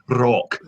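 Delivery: "rock" with a Scottish rolled R. Shown as a demonstration. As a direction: roll the R at the start of "rock". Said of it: "play a Scottish dwarf".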